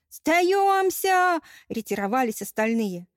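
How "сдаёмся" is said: panicked surrender. Acted. Robbers giving up in panic.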